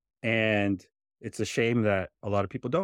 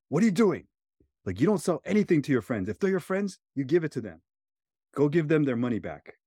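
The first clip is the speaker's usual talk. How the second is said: mad mom; 6 semitones higher, faster than usual. Retold or imitated. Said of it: "she's, like, mad".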